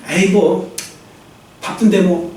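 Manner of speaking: low, offhand brush-off; mock can't-be-bothered excuse; dismissive excuse. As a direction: shrug it off as too busy. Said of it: "이런 식으로".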